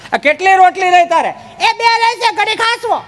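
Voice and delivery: high comic woman's voice; high put-on voice. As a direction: tease in a high voice. Teasing exchange about rotis.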